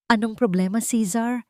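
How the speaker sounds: anxious, asking quickly what is wrong; nervous question. Acted. Dakila asks the investigator nervously on the phone, uneasy. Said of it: "kinakabahang tanong ni Dakila".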